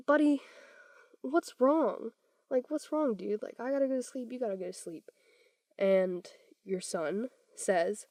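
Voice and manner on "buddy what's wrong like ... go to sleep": pretend weary dad. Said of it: "Let's pretend this is you".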